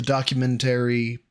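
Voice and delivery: "documentary" with the emphasis on the wrong syllable; "documentary" said with an oddly placed stress; misplaced emphasis. Real, not acted. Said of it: "put the emphasis on the wrong syllable".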